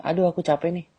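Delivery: girl complaining she's tired, lightly voiced whine; mock tired girl.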